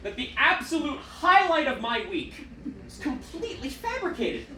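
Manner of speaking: hammed-up disbelief; mock outrage. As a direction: act betrayed by a recording. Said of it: "I'm like".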